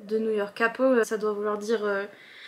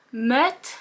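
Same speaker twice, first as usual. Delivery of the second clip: put-on southern French accent. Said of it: "comment il fait avec son accent de chanteur?".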